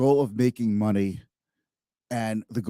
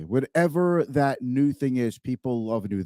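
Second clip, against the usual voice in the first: normal talking voice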